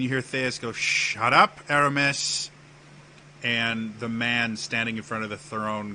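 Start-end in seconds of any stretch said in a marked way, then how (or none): 0.7-2.5 louder, raised-pitch mock outburst; indignant retort. Theus tells Aramis off, indignant. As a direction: fire back indignantly, in character.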